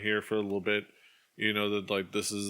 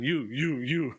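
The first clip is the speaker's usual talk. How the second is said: higher-pitched, repeated mock calls; imitated summoning calls; 5 semitones higher, slower than usual. Imitating the official picking out strangers, mock calling out. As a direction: mimic picking people out one by one. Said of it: "He just, like, grabs and points".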